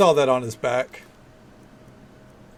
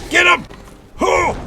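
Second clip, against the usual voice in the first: rally a companion to attack; excited shout; 9 dB louder than usual. Real, not acted. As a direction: yell it out high and loud. Shouting during a fight.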